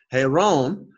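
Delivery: Heron said slowly as "hay-rone", h sounded; slow model of Heron with an aspirated start; rough breathing. Shown as a demonstration. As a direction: open Heron on a clear breathed h. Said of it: "you have a rough breathing here".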